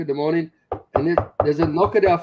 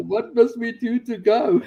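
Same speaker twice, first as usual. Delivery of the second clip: retelling his wife's eager plea; urgent excited question; 8 semitones higher than usual. Retold or imitated. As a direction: blurt it out eagerly, half laughing. Wife urgently asking to leave.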